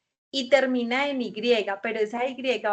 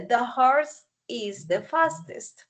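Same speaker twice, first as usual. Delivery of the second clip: slow model sentence; slower than usual. Shown as a demonstration. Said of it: "Entonces, acá dice".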